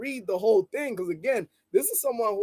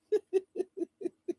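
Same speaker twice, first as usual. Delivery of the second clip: high laugh; 10 semitones higher, 8 dB quieter than usual. Real, not acted. Laughing at own joke.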